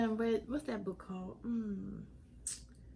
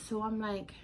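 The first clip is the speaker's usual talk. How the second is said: unvoiced whispered aside. Real, not acted. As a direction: drop to a whisper before the quote. Whispered lead-in.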